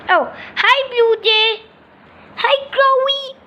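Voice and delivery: high, sing-song little voices; bird characters greeting. Pretend. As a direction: greet each other like cartoon birds. Birds exchange introductions.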